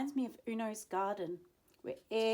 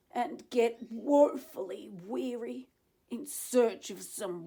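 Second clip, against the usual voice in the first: a touch louder, complaining guardian; indignant Lorax; 3 semitones higher, 6 dB louder than usual. Acted. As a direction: lament the poisoned ponds. Lorax voice held in reading.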